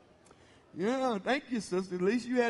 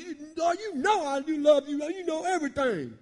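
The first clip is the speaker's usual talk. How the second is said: pitched higher, pressing each "know"; more earnest plea; 5 semitones higher than usual. Shown as a demonstration. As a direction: plead it higher, with more feeling. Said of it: "So it's different this time".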